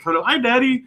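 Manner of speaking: put-on high child's greeting; imitated little kid. Dad imitating the child who caught him off guard, high voice. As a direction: pipe up innocently like a small child. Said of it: "she was just like".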